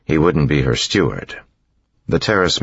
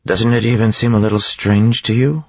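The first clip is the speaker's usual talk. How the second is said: much higher, pressing question; insistent questioning; 9 semitones higher, 3 dB louder than usual. A narrator's reading. Mistress pressing her servant about the strange mists, insistent. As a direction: push for agreement, pitch climbing to the end.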